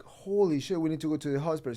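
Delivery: lightly voiced worried mom; imitated alarmed mother. Mom picking up injured son, mildly alarmed.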